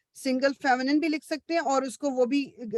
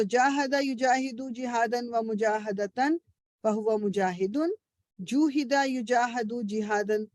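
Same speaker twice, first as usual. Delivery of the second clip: paradigm recitation; slower than usual. Shown as a demonstration. Recites verb paradigm slowly.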